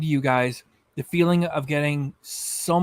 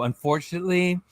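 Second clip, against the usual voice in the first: mock scientist. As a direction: lightly lecture it like a scientist. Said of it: "like she's a scientist and she's telling you".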